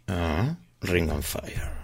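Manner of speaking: slow words round a cigarette; cigarette in mouth. Real, not acted. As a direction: talk with a cigarette between lips. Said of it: "con un cigarrillo en la boca no".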